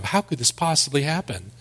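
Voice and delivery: mock bewildered protest; disbelieving surprise. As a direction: voice the people's stunned disbelief. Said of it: "like it was some kind of a surprise to them".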